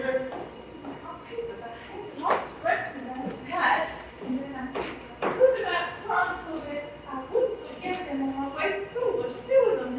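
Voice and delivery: confused and distressed. Acted. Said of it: "You're talking out your head".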